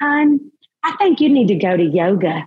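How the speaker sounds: put-on US Southern accent. Imitating a mother's annoying remark: imitating mom's Southern accent. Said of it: "so I gotta do a little more Southern".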